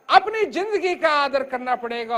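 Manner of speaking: normal talking voice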